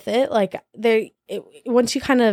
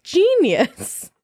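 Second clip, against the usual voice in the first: drawn-out, mocking praise of a bad idea; sarcastic genius; 8 semitones higher than usual. Recalling a teen diet tip, slow mocking sarcasm. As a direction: drag the word out with dry sarcasm.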